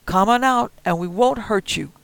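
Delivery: high, loud, rough threat; old man with shotgun warning the kid, loud; armed old man threatening. Acted. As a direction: bark it through the door. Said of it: "said Marty".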